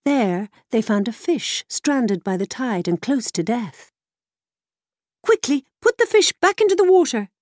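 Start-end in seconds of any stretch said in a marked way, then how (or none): 5.2-7.3 much higher urgent horse voice; whinny the order urgently; whinnying mare. A narrator's reading. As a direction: mare urging the boy to save the fish, whinnying. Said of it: "whinnied the mare".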